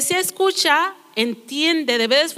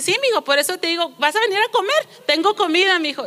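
mimicking grandma; 5 semitones higher, faster than usual. Preacher imitating a grandma who mishears her grandson, higher sweet voice. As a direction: chirp it like a grandma who didn't hear.

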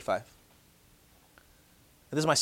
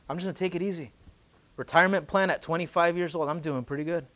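softer, smug self-talk; complacent musing; 5 dB quieter than usual. Pretend. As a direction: muse lazily about retiring early. Rich fool's complacent thoughts.

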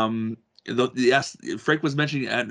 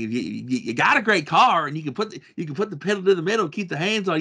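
higher-pitched, light hint of a Georgia accent; Bill Elliott; 5 semitones higher than usual. Host retelling a racer's pole advice, lightly hinted Georgia accent. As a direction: quote a racer with a touch of Georgia twang. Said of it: "I'm not trying to do his Georgia accent".

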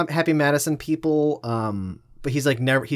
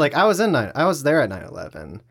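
Norm Macdonald impression; 4 semitones lower, 4 dB quieter than usual. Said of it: "his timing with that and his inflections".

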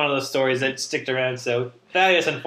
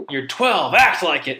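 stern dad; 2 semitones higher, 4 dB louder than usual. Retold or imitated. Dad scolds crying son.

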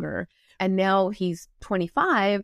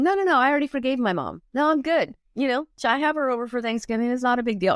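dismissive denial; 5 semitones higher, faster than usual. Retold or imitated. Mimicking a dismissive successful woman.

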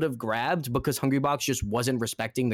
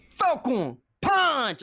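slow, high, drawn-out battle cry; Captain Falcon yell; 11 semitones higher, much slower than usual. Retold or imitated. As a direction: shout it like a fighting game hero. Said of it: "he says it in a very specific way".

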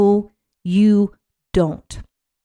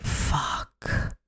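whispered curse; 9 dB quieter than usual. Retold or imitated. Someone facing December's schedule, whispered curse. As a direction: swear barely voiced, under the breath. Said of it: "and you're like".

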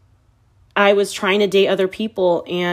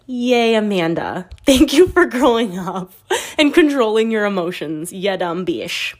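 sarcastic self-cheer, sinking into a drawled insult; mock congratulations. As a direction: cheer yourself on with irony.

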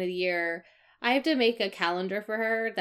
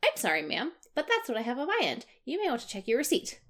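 bright, higher polite service voice; chirpy customer service voice; 5 semitones higher than usual. Retold or imitated. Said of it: "I keep my chirpy customer service voice".

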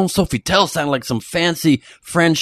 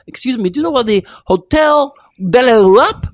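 loud, high, hammed-up French accent, pitch climbing on Hotel; over-the-top French accent; 9 semitones higher, 5 dB louder than usual. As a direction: ask for the Hotel de l'Europe in a thick, exaggerated French accent. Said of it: "in a very over-exaggerated French accent".

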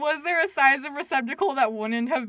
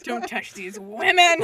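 laughing mock quote; 8 dB louder, slower than usual.

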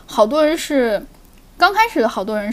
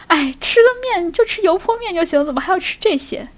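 mock Shaanxi grumble; grumbling cook; 6 semitones higher than usual. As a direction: scold the customer lightly, half-joking. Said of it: "他会吐槽你".

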